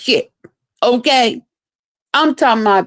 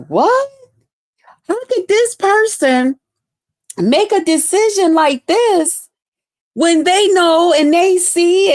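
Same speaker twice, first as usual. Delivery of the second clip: retold outrage; 6 semitones higher than usual.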